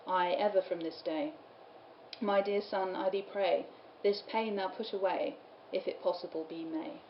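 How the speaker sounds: soft, measured verse recital; poem reading. Acted. Lecturer reading Mary's sorrowing answer, soft measured poem reading. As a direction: read it softly, line by line. Reads the carol aloud.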